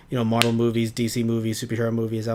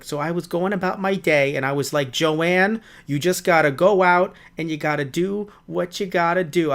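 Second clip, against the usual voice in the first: higher, louder, self-pep-talking spider; chatty spider voice; 5 semitones higher, 3 dB louder than usual. Pretend. Podcaster voicing the spider's day to cohost, high, chatty and loud. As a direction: voice the spider as she hypes herself up, high and loud. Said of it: "I just want the spider to just be like".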